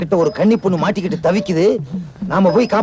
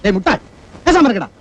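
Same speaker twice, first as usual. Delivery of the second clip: angry scold. Acted. Man scolding a foolish boy, sharp angry rebuke. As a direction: shut him up hard.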